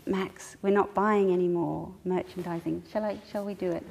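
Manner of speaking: soft, low, reassuring; a hint of a gentle parent voice; calm gentle limit. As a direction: calmly set a loving limit with her son. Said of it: "got down to his level and made eye contact".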